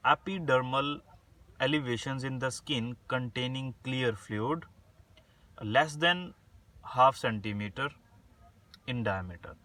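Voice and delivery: slow, spaced-out dictation reading; word by word like dictating notes. Shown as a demonstration. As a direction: read the definition slowly so students can write it down. Reads English definition for dictation.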